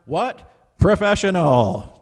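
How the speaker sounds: high, drawn-out catchphrase in an impression; Joe Fontesha. Host mimicking a fellow performer for the Zoom class, playful impression. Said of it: "that was my Fontesha impression".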